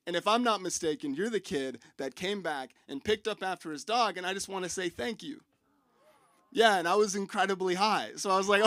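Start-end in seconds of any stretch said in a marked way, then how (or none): 0.1-5.4 softer, understated sincere neighbor; gentle thanks. Retold or imitated. Old neighbor thanking the kid who picked up, quietly sincere. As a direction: thank him quietly, easing down to the end.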